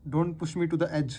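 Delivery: each word drawn out slowly for the class; slow example sentence. Shown as a demonstration. Teacher reading an example sentence to students, slow and deliberate. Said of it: "ऐसे बोलते हैं ना".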